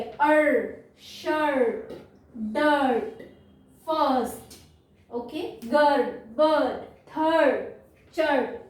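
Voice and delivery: each word read blended, one after another; read as whole words. Shown as a demonstration. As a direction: read the list, every word joined together. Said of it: "इकट्ठा पढ़ेंगे". (हर शब्द जोड़कर पूरा पढ़िए)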